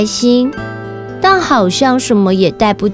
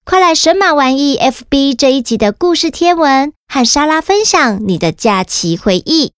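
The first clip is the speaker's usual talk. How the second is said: put-on kids show host. Host addresses children after story.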